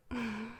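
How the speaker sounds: short, hushed closed-mouth chuckle. Acted. Demon teasing sleepy human.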